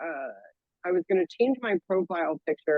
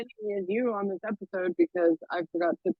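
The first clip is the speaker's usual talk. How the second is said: thin, tinny laptop-mic voice; tinny mic sound; 2 semitones higher than usual. Real, not acted. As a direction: sounds like in a tunnel. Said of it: "You sound like you're in a tunnel".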